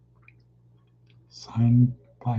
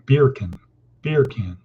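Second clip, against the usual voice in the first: bacon said as BEER CAN, Jamaican style; Jamaican accent. Retold or imitated. Showing how Jamaicans pronounce bacon, Jamaican accent. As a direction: imitate a Jamaican saying bacon. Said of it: "people from Jamaica pronounce bacon".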